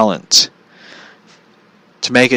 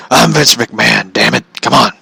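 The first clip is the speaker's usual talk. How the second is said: Vince McMahon impression. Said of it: "Let me try".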